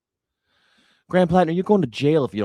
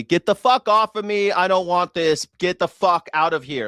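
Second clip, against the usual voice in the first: firm shout; 3 semitones higher than usual. Shown as a demonstration. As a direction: bark it like you mean it. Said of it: "women should also learn to say".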